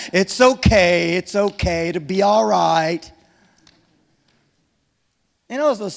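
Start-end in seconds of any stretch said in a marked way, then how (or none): 0.1-3.1 mock soothing. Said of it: "not just pat me on the back".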